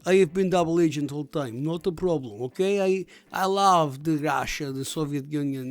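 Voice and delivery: a hint of a Russian double agent's accent; mild Russian accent. Double agent confessing to his co-hosts, in a light Russian accent. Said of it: "you can do your accent".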